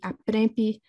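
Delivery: "aprempi" with the stress on the middle syllable; penultimate stress. Shown as a demonstration. Lecturer giving an example word, penultimate stress on "aprempi". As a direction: put the weight on "prem" in "aprempi". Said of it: "penultimate stress would be".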